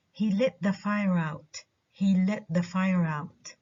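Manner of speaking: "out" unstressed after a stressed "fire"; stress on let, fire. Shown as a demonstration. Teacher demonstrating an example, stress on "let" and "fire". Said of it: "the verb let, the noun fire".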